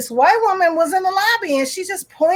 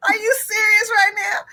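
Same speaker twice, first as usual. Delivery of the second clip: higher, half-shouted disbelief; disbelieving crowd; 6 semitones higher than usual. Retold or imitated. Bank customers shout at the woman in disbelief. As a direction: cry out in disbelief at her nerve.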